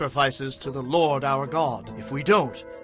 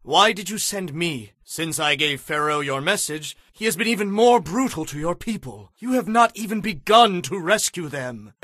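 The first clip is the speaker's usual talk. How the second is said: anguished protest; 9 semitones higher than usual. Acted.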